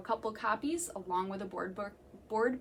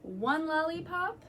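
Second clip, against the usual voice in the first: put-on reading to children. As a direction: savour each food for the little listeners. Reading picture book to children.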